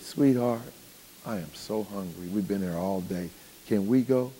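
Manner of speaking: softly imitating a sweet-talking wife; mock ladylike sweet talk, understated; sweet ladylike affectation. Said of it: "that little accent y'all put on it".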